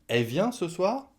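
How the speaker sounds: "Elle" reduced to "è"; "è vient ce soir?" high and rising; dropped L. Shown as a demonstration. Asking about the cousin tonight, L swallowed. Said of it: "On va le dire est".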